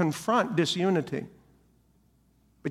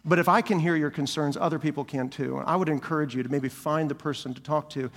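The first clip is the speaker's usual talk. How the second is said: gentle confrontation; 3 semitones lower than usual. Pretend. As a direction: ease into it like a caring friend. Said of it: "we do it in love".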